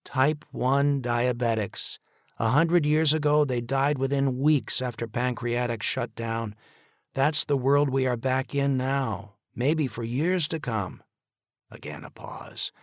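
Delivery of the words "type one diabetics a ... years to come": cold. A narrator's reading. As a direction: lay it out coldly. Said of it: "his voice was getting cold".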